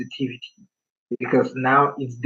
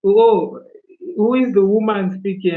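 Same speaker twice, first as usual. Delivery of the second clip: higher-pitched puzzled onlooker; mock-surprised, higher than usual; retold surprised question; 6 semitones higher, 3 dB louder than usual. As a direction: mimic a baffled passer-by, pitched up. Acting surprised people hearing his voice.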